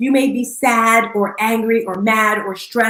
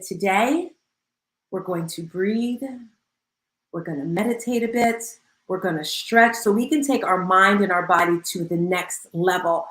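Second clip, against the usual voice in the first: calm instructor voice; 3 semitones lower, 3 dB quieter than usual. Retold or imitated. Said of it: "we turned it all around".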